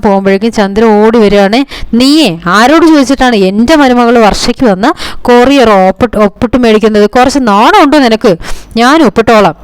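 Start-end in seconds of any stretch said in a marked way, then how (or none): 2.0-9.5 mock angry scolding. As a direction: tell her off like a bossy mother-in-law, half-acted. Mother-in-law scolds over courier. (അമ്മായിയമ്മയുടെ ദേഷ്യത്തോടെയുള്ള ശകാരം, അനുകരിച്ച്)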